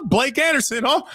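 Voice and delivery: a touch of a hyped radio announcer; announcer call. Retold or imitated. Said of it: "one of the best calls in the history of football".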